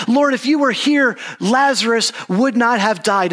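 high-pitched retold lament, only lightly distraught; distraught plea. Preacher voicing Mary's grief to Jesus, mildly distraught plea. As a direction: voice Mary's grief without real crying. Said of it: "she's crying and says that she's distraught".

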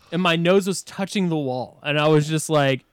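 ordinary talk

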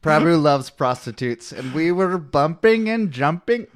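put-on slow, deliberate Indian accent; put-on Indian book-character accent; mock Indian accent. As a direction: draw the words out in an imitated Indian accent. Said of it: "you read all the Indian characters".

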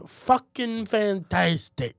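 slow dragged sarcastic reply; mock fed-up customer; sarcastic answer. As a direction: drawl it out sarcastically. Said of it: "How's your day?".

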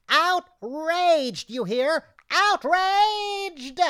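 rising outrage; building outrage. Acted. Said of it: "I am outraged".

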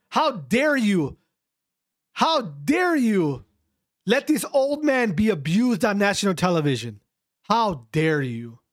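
worked-up moral outrage; getting heated. Real, not acted. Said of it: "I'm getting heated here".

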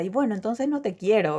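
a touch of hurt shrug, lightly voiced; tossed-off resigned line; understated resigned comeback; mild retort. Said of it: "me quedó esa frase".

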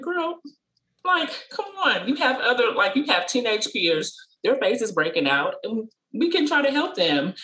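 put-on a mother's playful "come on, girl"; coaxing mom. Mom coaxing shy daughter at shop.

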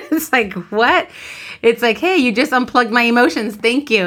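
laughing. Real, not acted. Joking aside, laughing.

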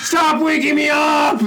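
high, drawn-out shout through a wall; retold yell. Storyteller yelling back at noisy neighbours, acted high holler. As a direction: holler it, stretching each word.

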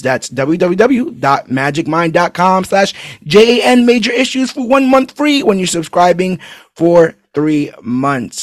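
spelled out slowly, clearly; slow ad read. Shown as a demonstration. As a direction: read the web address slowly. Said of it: "repeats URL slowly".

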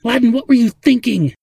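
high, loud exasperated scolding; bellowing. A narrator's reading. Zadeh scolds Ladin over the job, bellowing. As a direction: bellow it at him in disbelief. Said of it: "Zadeh bellowed again".

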